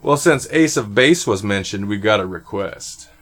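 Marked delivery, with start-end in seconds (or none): 1.9-3.1 low smooth late night DJ; sexy radio voice. Shown as a demonstration. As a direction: purr it like a night radio host. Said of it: "Do you like my sexy voice?".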